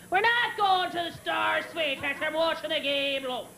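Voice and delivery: a hint of an irritated father; impatient dad. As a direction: imitate a dad who won't budge. Gruff dad voiced in story.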